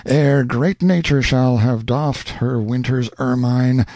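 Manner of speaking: slow, hammed-up melodramatic vow; melodrama villain. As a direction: swear it like a stage villain. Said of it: "hissed through his teeth, in unconscious imitation of a popular favorite in melodrama".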